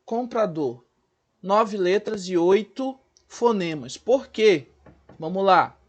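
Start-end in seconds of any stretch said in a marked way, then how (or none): 0.0-0.8 slow, syllable by syllable; slow demo word. Shown as a demonstration. Teacher to pupils, slow spelled-out comprador. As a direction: stretch out comprador slowly for the class. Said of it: "Olha aqui, gente".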